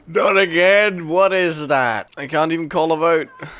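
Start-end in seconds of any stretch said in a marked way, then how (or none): 0.1-2.1 exasperated outcry. Real, not acted. Protesting at a game event.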